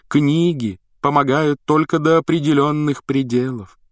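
высокий мистический голос, медленно к концу; таинственно, нараспев, как провидица; загадочная прорицательница. Acted. Голос Трелони на уроке. (высокий загадочный голос прорицательницы)

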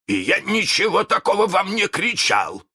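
high, uneasy protest; slight tremble. A narrator's reading. Hook denies it to his men, mildly trembling. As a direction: insist with a touch of alarm. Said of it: "сказал он с лёгкой дрожью".

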